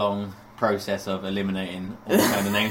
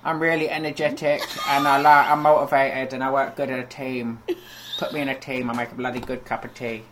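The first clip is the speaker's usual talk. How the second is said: lightly mocked eager job applicant; 3 semitones higher than usual. Co-host mimicking a school-leaver's CV, mock eager. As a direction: recite a naive CV in a put-on voice. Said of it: "ones that, like".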